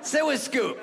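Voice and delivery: wheedling voice of a lazy dog; coaxing dog. Retold or imitated. Scooby inviting him to sit, coaxing. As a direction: coax in short, spaced invitations. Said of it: "And he's like".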